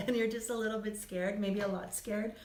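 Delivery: a voice that is going a bit rough; losing voice. Real, not acted. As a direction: voice giving out, slightly hoarse. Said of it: "Losing my voice around this".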